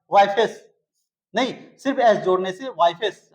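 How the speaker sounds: "वाइफेस" rushed, ending swallowed; teacher shows the wrong "वाइफेस"; wrong plural demo. Shown as a demonstration. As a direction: rattle off "वाइफेस" quickly. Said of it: "तेजी से बोल के निकल जाना पड़ा".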